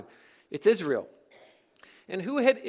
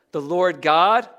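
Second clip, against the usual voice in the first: "God" punched louder with a rising tune; emphasis on the name; 6 dB louder, slower than usual. Shown as a demonstration. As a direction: hit "God" hard and lift it. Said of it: "What's the emphasis?".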